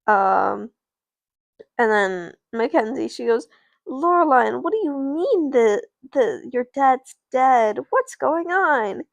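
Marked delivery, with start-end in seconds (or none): 3.9-9.0 high, loud acted alarm; dramatic pretend shock at a friend's news; shocked disbelief. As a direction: stretch it out, pitch climbing in disbelief. Friend reacts to news of death.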